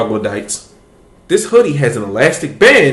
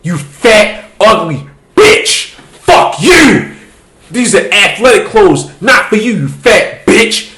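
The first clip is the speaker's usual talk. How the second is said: louder, higher jeering troll voices with cackles; mocking online trolls; 5 semitones higher, 4 dB louder than usual. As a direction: jeer like a pile of hateful commenters. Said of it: "it started off with a few niggas".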